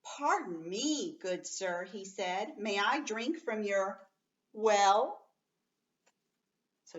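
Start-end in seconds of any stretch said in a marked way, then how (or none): 0.0-5.3 slightly slow, courteous knight; a hint of a polite knight. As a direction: ask politely, like a gentleman. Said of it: "spoke to the young man politely".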